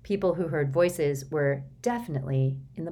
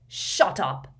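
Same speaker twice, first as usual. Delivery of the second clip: roared; 4 dB louder than usual. Acted. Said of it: "roared Uncle Vernon".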